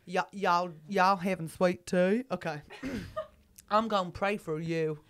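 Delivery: light Southern twang for a church lady; Texan accent. Acted.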